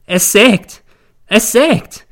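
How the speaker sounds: high, loud wailing cry; wailing shriek. Acted. Mother wails in her fit, high loud wail. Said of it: "jammert sie".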